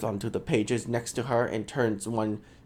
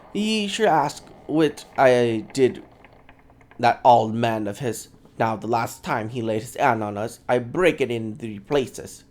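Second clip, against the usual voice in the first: attempted Scottish accent; 5 dB louder than usual. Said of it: "I can't do a Scottish voice".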